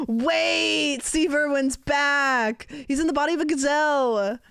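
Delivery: loud, high, excited Australian wildlife host; Steve Irwin Australian. Retold or imitated. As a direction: shout it like a thrilled Australian croc hunter. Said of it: "You always go Australian".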